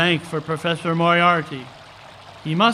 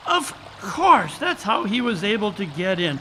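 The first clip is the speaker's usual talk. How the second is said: raving. Acted. Holmes explaining the trick to puzzled Watson, excited raving. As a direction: tumble out the answer, thrilled. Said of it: "what are you raving about".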